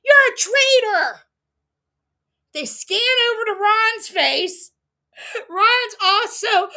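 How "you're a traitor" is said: higher, louder accusing call; pointed accusation. Retold or imitated. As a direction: point and declare it to his face. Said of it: "Michael looks at him and points".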